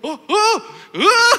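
laughing oh. Retold or imitated. Preacher reacts laughing.

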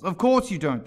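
scornful Hatter; contemptuous. A narrator's reading. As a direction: dismiss it with open contempt. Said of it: "tossing his head contemptuously".

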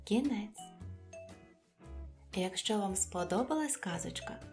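ordinary delivery

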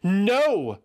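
high, loud no; sharp denial. A narrator's reading. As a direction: cut him off. Eothas denies loudly.

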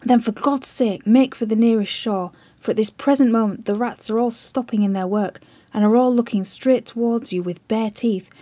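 loud, desperate pleading that keeps climbing; frantic plea. Acted. Chips frantically warning the admiral, loud desperate plea. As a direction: shout the warning, pleading for his life.

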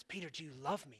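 breathy whispered question. Retold or imitated. Jesus asking Peter a third time, whispered. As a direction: whisper it intimately.

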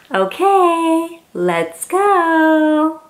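bright high gasp of eagerness; excited. Acted. Thrilled to start reading to a child. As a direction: jump in with delight.

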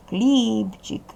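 хлібчик with the first syllable хліб drawn out; stress on first syllable. Shown as a demonstration. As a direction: stretch the stressed хліб in хлібчик, then a short чик. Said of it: "наголошений перший склад".

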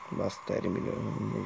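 "Busz terminál" said as English "bus terminal"; english accent in hungarian. Shown as a demonstration. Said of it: "egy angolos kiejtéssel". ("Busz terminál" angolos kiejtéssel)

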